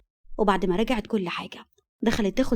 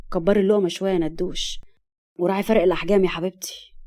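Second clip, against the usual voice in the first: teasing husband; 2 semitones lower than usual. Acted. Husband asks wife for bigger bites, teasing lightly. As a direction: tease her about the tiny bites.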